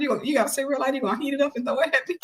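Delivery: quick, high mocking question; laughing taunt. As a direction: re-enact an incredulous jeer, rushing to the end. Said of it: "I just started laughing".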